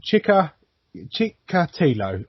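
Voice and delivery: "Chikatilo" slowly, in halting pieces; "Chikatilo" broken up slowly, unsure of the name; sounding it out. Real, not acted. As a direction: pick through "Chikatilo" syllable by syllable. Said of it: "why did I choose Russian when their names are fucking long".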